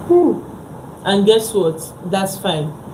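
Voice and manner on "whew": talking through a yawn. Real, not acted. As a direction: yawn mid-sentence. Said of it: "Sorry, I'm yawning".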